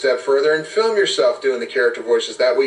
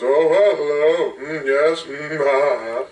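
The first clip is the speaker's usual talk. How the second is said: hammy councilman greeting, full of hums; a higher, drawn-out character hello with musing noises; Ted Knight; 4 semitones higher, slower than usual. Acted. Councilman receives the players, Caddyshack-style character voice. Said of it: "Ted Knight in Caddyshack".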